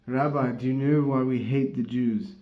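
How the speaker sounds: toned-down attempt at a Scottish accent; failed Scottish accent. Retelling the Scotsman's question to the rabbi, mild mock Scottish accent. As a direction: repeat it in a half-hearted Scottish accent. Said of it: "a failed Scottish accent".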